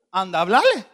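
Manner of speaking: loud, impatient order from God; insistent command. Acted. God telling the reluctant preacher to go, insistent. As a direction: raise the voice on a repeated order.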